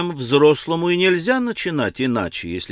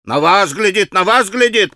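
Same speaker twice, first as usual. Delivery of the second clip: higher, excited echoing cry; boys chiming in; 5 semitones higher, 4 dB louder than usual. A narrator's reading. Boys echoing their leader about the watcher, excited. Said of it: "подхватили мальчики".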